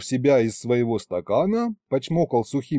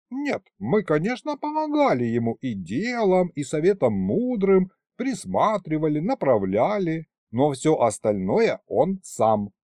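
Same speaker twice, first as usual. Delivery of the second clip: put-on old man voice; 4 semitones higher than usual. Old grandfather figure voiced.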